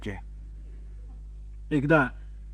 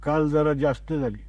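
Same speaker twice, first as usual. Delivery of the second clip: deadpan excuse; 4 semitones lower than usual. Retold or imitated. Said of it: "चेहऱ्यावरची घडी बिघडू न देता".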